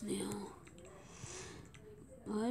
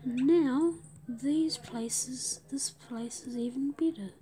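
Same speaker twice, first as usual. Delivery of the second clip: whisper. Real, not acted. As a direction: whisper it like a secret plan. Whispered commentary while playing.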